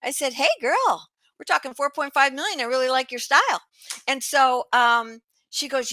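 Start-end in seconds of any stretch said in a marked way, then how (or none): 0.3-3.6 excited approval. Retold or imitated. Thrilled at a big budget.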